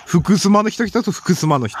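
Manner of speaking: 福島 said as "fukusuma" in Fukushima dialect; Fukushima accent. Shown as a demonstration. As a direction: correct yourself into a thick Fukushima accent, "su" for "shi". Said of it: "あ、違う、福島の人来たぞ". (福島訛りで「ふくすま」)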